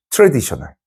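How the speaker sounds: ordinary talk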